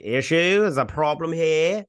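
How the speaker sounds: put-on indignant query; imitated challenge.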